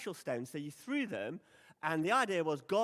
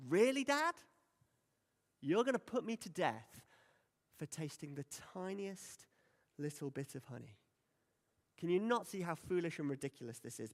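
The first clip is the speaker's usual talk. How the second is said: mock disbelief at his father; scoffing at a ridiculous verdict; sarcastic. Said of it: "Jonathan's being sarcastic".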